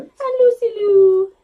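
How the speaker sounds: slow, loud, sing-song intro; big cheery dog introduction; overbright kids show host. Acted.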